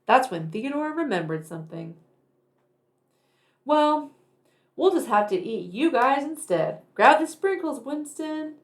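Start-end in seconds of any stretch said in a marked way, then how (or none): 3.6-8.6 hungry monster. Acted. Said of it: "monster threatens boys".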